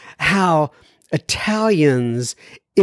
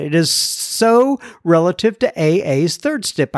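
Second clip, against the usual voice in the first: measured radio host reading; clear, deliberate mail-segment read; letter read aloud. Acted. Reads a listener's letter aloud.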